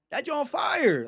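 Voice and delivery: excited shout. Real, not acted. Hyping his car to chat, with an excited shout.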